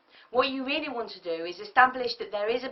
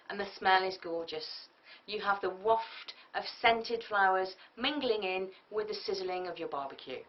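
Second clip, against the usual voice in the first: dreamy scene-setting. Shown as a demonstration. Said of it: "Imagine this".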